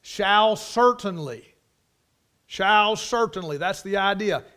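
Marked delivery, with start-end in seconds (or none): 0.0-3.6 SHALL CERTAINLY, slow and loud; emphatic. Shown as a demonstration. Preacher explaining that shall means certainly, emphatic. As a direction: hit both words of "shall certainly" firmly. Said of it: "It is an emphatic word".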